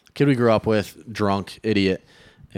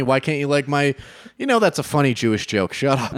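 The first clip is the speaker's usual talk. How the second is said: raised, indignant mock rant; indignant mock quote; 6 semitones higher than usual. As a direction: demand it with mock outrage.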